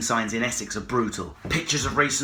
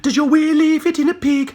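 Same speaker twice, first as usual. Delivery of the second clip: higher, loud taunt; shouted taunt; 12 semitones higher, 6 dB louder than usual. Pretend. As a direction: call out the taunt. Repeated taunt.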